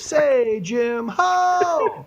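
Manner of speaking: high, loud hammed-up pimp holler; a falsetto pimp greeting a stranger. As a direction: holler it like a flashy movie pimp. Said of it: "the pimp goes".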